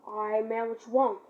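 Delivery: loud, challenging squaring-up call; confrontational shout. Retold or imitated. Facing the older guy, calls out loudly. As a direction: stand your ground and call him out.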